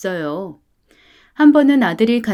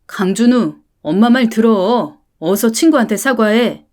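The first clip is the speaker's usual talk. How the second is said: louder, firmer repeated order; stern full-name scolding; 4 dB louder than usual. Acted. Mother using his full name, ordering the apology louder. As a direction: hit the full name and demand it.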